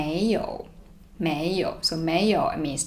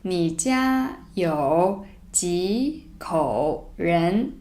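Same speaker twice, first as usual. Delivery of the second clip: slow demo; much slower than usual. Shown as a demonstration. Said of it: "So, one more time".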